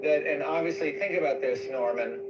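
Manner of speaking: put-on Indian accent. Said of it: "Your Indian accent is so freaking funny".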